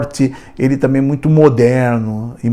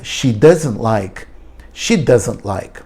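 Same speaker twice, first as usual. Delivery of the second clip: slow clear model; 2 semitones lower, slower than usual. Shown as a demonstration. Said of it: "Ela não gosta".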